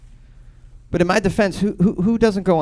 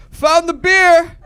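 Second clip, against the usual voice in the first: high, loud, drawn-out dog voice; slow, high-pitched proud dog shout; excited drug dog; 8 dB louder, slower than usual. Acted. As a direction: announce the find like a thrilled dog. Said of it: "The dog was like".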